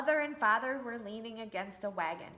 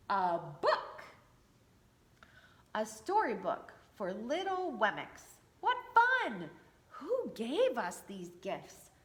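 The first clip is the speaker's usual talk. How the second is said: delighted reader; slower than usual. Acted. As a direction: cheer over the storybook. Excited figure voice.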